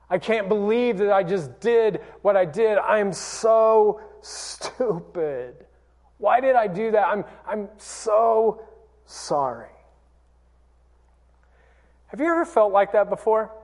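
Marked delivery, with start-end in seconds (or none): 0.1-9.7 guilty self-reproach. Retold or imitated. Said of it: "had a godly guilt".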